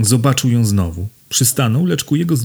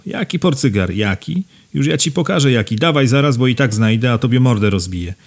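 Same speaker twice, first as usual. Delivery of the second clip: raised, furious demands; angry threatening yell, higher; yelling threats; 3 semitones higher than usual. Acted. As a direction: shout him down, pitch up. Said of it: "Czego wrzeszczysz?".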